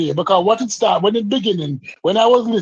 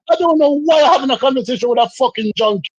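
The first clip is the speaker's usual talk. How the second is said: heated insult; 6 semitones higher than usual. Real, not acted. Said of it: "You just emptied the clip".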